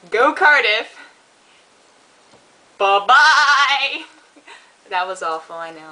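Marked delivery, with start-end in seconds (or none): 0.1-4.0 loud, high Welsh-accented cheer. Shown as a demonstration. Welsh fan cheering on Cardiff, loud Welsh accent. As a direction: shout it like a Welsh football fan. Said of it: "a few lines for you in a Welsh accent".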